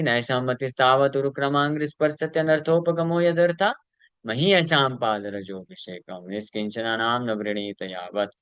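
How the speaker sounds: chanted Sanskrit verse that fades off at the end; verse recitation. Acted. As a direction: recite the shloka in one flowing chant.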